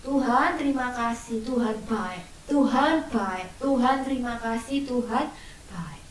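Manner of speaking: put-on quiet child's thank-you prayer; soft grateful prayer. Shown as a demonstration. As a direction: pray thankfully, trailing off gently. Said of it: "berdoa dengan tekun dan dengan bersyukur".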